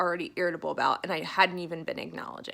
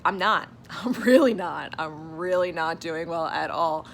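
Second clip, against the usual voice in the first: emphatic admission; 7 dB louder than usual. Retold or imitated. Telling therapist she's not okay.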